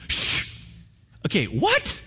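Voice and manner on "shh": a soft, hushed shh; shushing. Retold or imitated. Leaders on the wall shush the enemy, with a soft hushed shh. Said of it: "try to shush the enemy".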